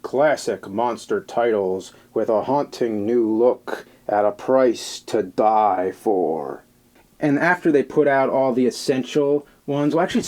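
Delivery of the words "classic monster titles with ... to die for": slow, ominous vintage horror promo voice-over; creepy narrator voice. Retold or imitated. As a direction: read it like a spooky VHS trailer announcer. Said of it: "creepy narrator voice that would be like".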